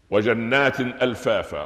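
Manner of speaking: slow recited verse; Quran recitation. Shown as a demonstration. Teacher reciting the verse to students, slow. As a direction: intone the verse slowly like recitation. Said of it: "وقفنا عند الجنات".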